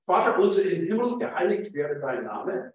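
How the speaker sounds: Lord's Prayer read in High German, first line lifted; formal German prayer reading; standard German reading. Shown as a demonstration. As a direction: read Vater unser im Himmel as standard German. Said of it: "that's German".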